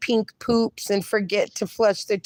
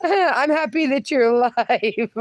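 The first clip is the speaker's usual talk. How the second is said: giggling as she rereads the joke; reading the line through laughter; laughing through it. Real, not acted. Host rereading the chat joke to viewers, laughing.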